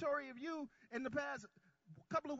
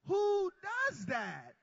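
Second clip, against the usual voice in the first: high and loud on Who, then dropping; loud call to the crowd; 7 semitones higher, 8 dB louder, much slower than usual. Acted. Preacher leading the congregation, loud call and response. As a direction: call out the line for the church to echo. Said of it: "Y'all say that with me".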